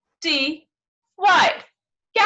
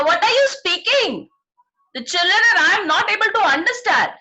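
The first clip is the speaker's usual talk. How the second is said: higher-pitched, put-on telling-off; mild mock scolding; 5 semitones higher than usual. Cat friend scolds the teacher for unclear speech, mild scolding. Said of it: "who's scolding me".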